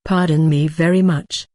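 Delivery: a lightly drawn-out, pointed apology; pointed drawl. Acted. Chu to her mentor, a mild pointed drawl. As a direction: drag the words out a little, pointedly polite. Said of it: "in a pointed drawl".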